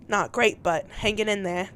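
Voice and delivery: Southern attempt that sounds British; still-British accent. Replying to Mara's text, accent still British. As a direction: keep slipping into a British accent. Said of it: "That's still British".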